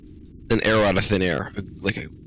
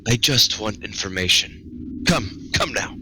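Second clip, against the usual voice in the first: a light Irish lilt, slow and coaxing; Irish accent; slower than usual. Acted. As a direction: coax them gently in a faint Irish accent. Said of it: "You've turned Irish again".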